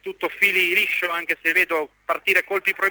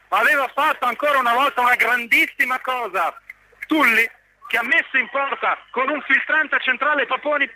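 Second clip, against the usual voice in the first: excited near-miss call; 4 semitones higher than usual. Real, not acted. Occasione del tre a zero.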